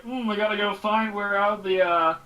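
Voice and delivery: a hint of a cheesy ad narrator; infomercial voiceover impression. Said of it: "the guy's voice is totally that".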